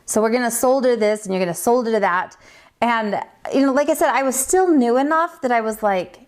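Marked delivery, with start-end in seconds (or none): 0.1-2.3 "solder" said with the L both times; quoting the teacher, "solder" with a clear L; teacher's pronunciation of solder. Retold or imitated. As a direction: say each "solder" as SOLE-der. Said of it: "she would always say solder".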